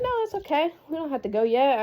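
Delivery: high-pitched, placating wave-off; retold reassurance. Wife telling panicked husband there is time, reassuring. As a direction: talk down someone who is panicking, retold.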